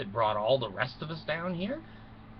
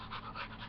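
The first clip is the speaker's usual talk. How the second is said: shocked gasp; 17 dB quieter than usual. Acted. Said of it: "when I say it, it just kinda makes me freeze up".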